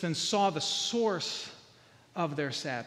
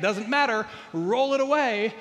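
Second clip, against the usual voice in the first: louder, acted firm reply; insistent command; 4 semitones higher, 5 dB louder than usual. Preacher voices Jesus overruling the objectors, insistent. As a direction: overrule them with a raised voice.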